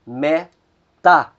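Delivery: "metá" with the stress on "tá"; Greek stress demo. Shown as a demonstration. Teacher modelling the whole word again, stress on the end. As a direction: say "metá", landing on "tá". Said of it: "a sílaba que soa mais forte é a última".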